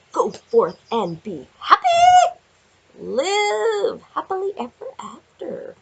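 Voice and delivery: loud, slow, laughing cheer; a laughing, slow send-off; excited blessing. Acted. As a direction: proclaim it with glee. Cheering over a happy card.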